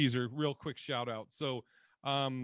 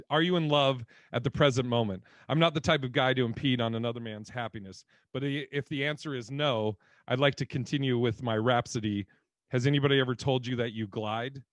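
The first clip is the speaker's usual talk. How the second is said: louder, deliberate reading of the smooth pickup line; 6 dB louder than usual. Retold or imitated. Reading Andy Garcia's nightclub pickup line aloud, louder and smoother. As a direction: deliver the line like a suave movie charmer. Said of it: "He goes".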